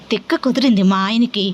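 ordinary delivery

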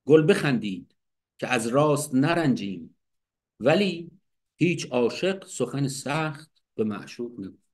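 measured recital of the verse; poem recitation. Shown as a demonstration. Teacher quoting Hafez's verse, measured poetic recital. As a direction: read the lines as a poem. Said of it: "میگه".

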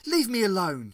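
loud snapping refusal. A narrator's reading. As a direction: snap it at him. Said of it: "she snapped".

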